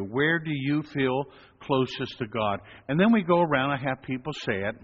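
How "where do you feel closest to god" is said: slower, more inward; repeated question for reflection; slow, reflective question. Shown as a demonstration. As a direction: ask it gently to the listener. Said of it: "think about that question right now for you".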